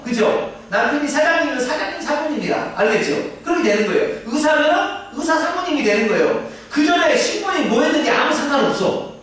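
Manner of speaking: high, emphatic full-force sermon voice; fervent preaching. Acted. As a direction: preach it out to the congregation with fire. (열정적으로 높게 외치는 설교)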